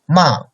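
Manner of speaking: "Ma" falling sharply from high, fourth tone. Shown as a demonstration. Teacher showing students the falling tone, "Ma" dropping down. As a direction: snap "Ma" down from the top. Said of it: "fourth tone like downcoming tone".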